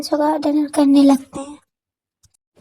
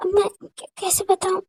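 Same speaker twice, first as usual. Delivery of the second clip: stammering apology; 4 semitones higher, 4 dB quieter than usual. Acted. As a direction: plead for forgiveness gently. A rapper apologizing. (धीमी, पछतावे भरी माफ़ी)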